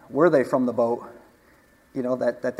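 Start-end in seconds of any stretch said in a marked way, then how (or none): 0.1-1.1 "Were" leaned on as the correction; stress on Were. Real, not acted. Preacher correcting his own grammar, stress on "Were". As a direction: put the weight on "Were", then carry on evenly. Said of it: "Sorry, my grammar".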